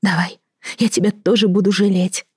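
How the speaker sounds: last hope. Acted. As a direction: reach out hopefully. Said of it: "в последней надежде".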